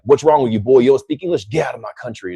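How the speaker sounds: mock-hostile American confronting a foreigner; lightly put-on confrontational American voice. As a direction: imitate a local ordering a foreigner out. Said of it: "you go to America and they're like".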